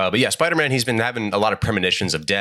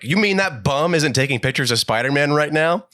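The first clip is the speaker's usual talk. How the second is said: higher-pitched indignant boss; acted gruff editor's outrage; J. Jonah Jameson; 8 semitones higher than usual. Editor hearing his photographer is missing, indignant.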